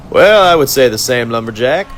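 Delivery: high, taunting villain voice, savoring the catch; gloating villain conductor. Acted. Conductor gloats over his handcuffed captives, high and mocking. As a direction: purr over the trapped prisoners like a smug torturer.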